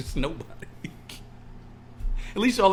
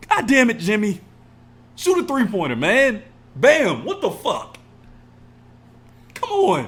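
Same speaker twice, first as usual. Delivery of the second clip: loud, high shouts at the players; frustrated yelling; 9 semitones higher, 8 dB louder than usual. Real, not acted. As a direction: scream at Jimmy like he can hear you. Yelling at team replay.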